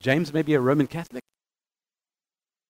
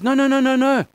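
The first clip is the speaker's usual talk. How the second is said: higher, louder run of no's; emphatic denial; 6 semitones higher, 4 dB louder than usual. Acted. Paul rejecting the Jewish Christians' demand, emphatic. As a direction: shut the idea down firmly. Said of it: "Paul comes along and says".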